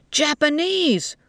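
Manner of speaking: high, slow, emphatic cry; shouted. A narrator's reading. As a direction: shout her down with one drawn-out word. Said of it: "one of them shouted at her".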